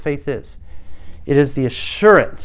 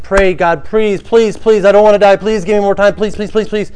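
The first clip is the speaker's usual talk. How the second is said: high, loud begging, please after please; desperate pleading king; 6 semitones higher, 7 dB louder than usual. Retold or imitated. Preacher acting Hezekiah begging God for more time. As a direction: beg God frantically not to die. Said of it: "He's like".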